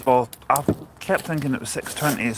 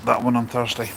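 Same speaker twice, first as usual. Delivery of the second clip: speaking through hiccups; words broken by a hiccup. Real, not acted. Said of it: "Sorry, I've got the hiccups".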